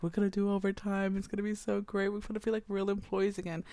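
quick, lightly excited chatter; mildly gushing with relief; eager employees. Retold or imitated. Employees thrilled to finally get work, lightly excited. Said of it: "They're so excited".

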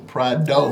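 Prado said slowly, every sound clear; careful name pronunciation. Shown as a demonstration. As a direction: spell out Prado slowly, PRAH-doh. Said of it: "I said Big A Prado".

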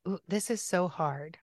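soft, slow commiseration; hushed, compassionate tone; tender sympathy. Shown as a demonstration. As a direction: acknowledge their pain gently and slowly. Modeling sympathy for someone grieving.

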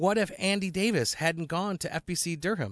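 measured email read-out; reading aloud. Acted. Cohost reading a listener's email on air, measured. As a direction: read the letter out evenly and formally.

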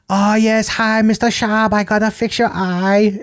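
put-on high-pitched caricatured Asian accent; Brendan Schaub's Asian doctor accent. Host imitating comedian's doctor bit, mock Asian accent. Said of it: "U F C doctor who's Asian".

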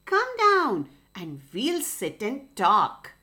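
lightly voiced sly coaxing fox. Fox luring the rooster down, lightly voiced and sly. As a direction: sweet-talk him down from the tree.

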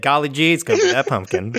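golly gee, pick the pumpkin; folksy speaker. Acted. The speaker picks his pumpkin in a low folksy voice. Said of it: "and I said".

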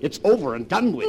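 loud, high, urgent; agitated insistence. Acted. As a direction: force the matter closed. Pressing frightened wife to drop it.

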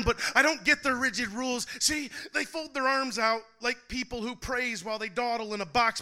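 driving spoken word verse; performing a slam poem to the crowd; slam poetry. Acted. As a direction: build the poem with rising force.

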